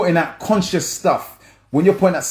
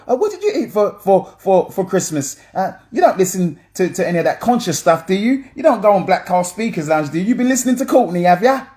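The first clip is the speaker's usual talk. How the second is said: mock interrogator; 5 semitones higher than usual. Interrogator voiced in mock quiz.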